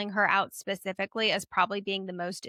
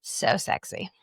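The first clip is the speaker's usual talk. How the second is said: whispered. Real, not acted. Joking about the monster.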